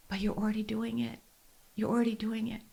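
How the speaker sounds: soft, close whisper of a midwife; gentle whisper. Retold or imitated. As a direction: reassure her softly at the ear. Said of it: "she whispered in my ear".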